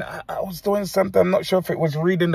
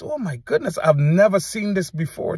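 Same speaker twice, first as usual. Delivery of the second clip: amazed gasp; 4 semitones higher than usual. Retold or imitated. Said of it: "so I realized".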